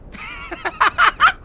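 high, loud gloating cackle; evil laugh. Acted. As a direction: laugh down at a crushed enemy. Villain gloats over defeated rival.

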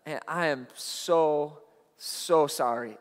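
slow, soft, heartfelt sorry; genuine apology. Retold or imitated. Young man apologizing to his pastor, slow and soft. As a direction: let the regret sink in. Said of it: "And I was genuine".

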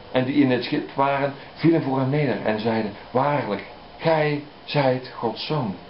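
slow, measured Bible reading; unhurried reading from the pulpit; scripture reading. Acted. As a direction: read it out with solemn weight. Reads gospel passage aloud.

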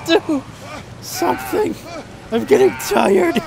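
begging in frustration; exasperated whine. Real, not acted. Streamer struggling with game controls.

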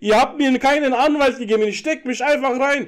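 worked-up shouting about your rights; yelling in protest. Pretend. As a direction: protest indignantly over the other man. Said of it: "Alter, brüll nicht so!".

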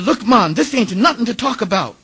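emphatic mock Barbadian accent; attempted Barbadian accent. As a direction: brush off a troublemaker in put-on island accent. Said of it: "my attempt to do an island accent".

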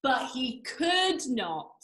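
ordinary delivery

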